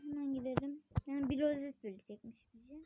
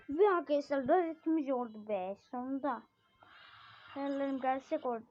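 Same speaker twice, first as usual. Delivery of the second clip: loud happy announcement; triumphant; 6 dB louder than usual. Real, not acted. Gamer tells viewers the badge is won, triumphant. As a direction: celebrate the win.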